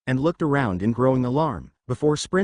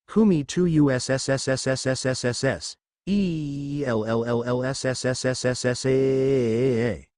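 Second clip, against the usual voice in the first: eerie spirit calling out the name; ghostly wail. A narrator's reading. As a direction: stretch every sound like a haunting spirit. Ghosts wailing Elsa's name.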